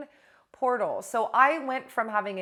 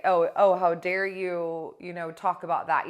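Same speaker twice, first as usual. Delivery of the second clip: mock outrage; 5 dB louder than usual. Mocking society's shaming.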